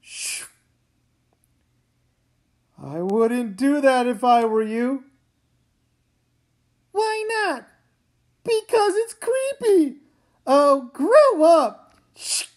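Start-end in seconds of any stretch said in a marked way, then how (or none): 0.0-0.5 soft hushing shh; quiet shushing sound. Acted. Hushing her sibling. 10.5-12.0 scornful. Acted. Dismissing sibling's fear.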